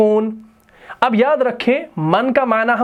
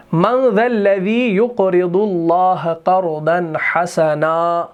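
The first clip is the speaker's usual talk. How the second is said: slow melodic tajweed recitation; measured Quranic chant; much slower than usual. Shown as a demonstration. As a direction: chant the verse slowly, drawing out vowels. Reciting Quran verse slowly.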